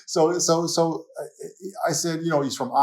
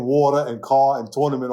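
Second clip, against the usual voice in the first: words in a natural New York accent; New York vowels and dropped R's. Shown as a demonstration. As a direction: say it like a lifelong New Yorker. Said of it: "holding on to my New York accent".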